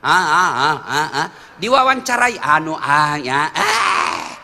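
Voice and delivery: halting, fumbling ah-ah stutter; mock a tongue-tied MP in an interview; stammering legislator. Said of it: "dia memang tidak tahu bicara".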